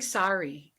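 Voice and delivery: "sorry" with an open ah, SAH-ree; slow, deliberate SAH-ree for "sorry"; "sorry" like sari. Retold or imitated. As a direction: mimic "sorry" as the word sari. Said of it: "like what Indians wear".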